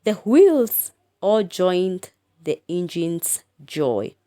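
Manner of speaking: slow, measured recitation; slow poem reading. Shown as a demonstration. Teacher reciting poem lines to pupils, slow. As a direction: draw the line out slowly. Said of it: "The third line".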